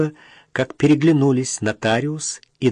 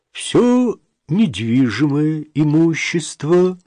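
slow, higher official read; formal reading aloud; 4 semitones higher, 4 dB louder, slower than usual. A narrator's reading. Notary continues reading the will, formal reading. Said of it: "продолжал нотариус".

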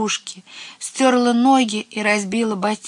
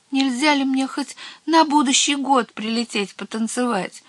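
high, pleading small voice; timid; 7 semitones higher than usual. A narrator's reading. Little witch begging the head witch, timid. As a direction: ask meekly, hoping for a yes. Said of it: "робко спросила".

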